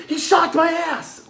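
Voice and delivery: high-pitched, drawn-out imitated cry; mock yelp of a kid. Kid to the group after a shock, high mock yelp. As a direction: mimic a shocked kid wailing from behind.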